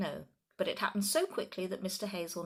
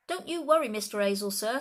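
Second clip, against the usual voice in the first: much higher, loud hearty call; cried out; 4 semitones higher, 9 dB louder than usual. A narrator's reading. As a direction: call out with mock helpfulness. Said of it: "Sergeant Samways cried out".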